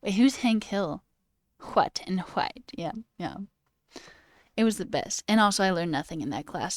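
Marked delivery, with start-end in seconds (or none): 1.6-2.7 "What" and "white" as hwat and hwite, drawn out; breathy wh. Shown as a demonstration. Streamer echoing the sub's accent, "What", "white" said hwat, hwite. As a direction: slowly puff an h into "What" and "white". Repeats the shown pronunciation.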